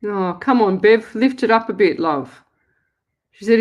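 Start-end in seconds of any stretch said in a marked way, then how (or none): 0.1-2.4 loud, urging call to the caller; loud coaxing call-out. Real, not acted. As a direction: raise your voice to hurry her along. Calling out to caller.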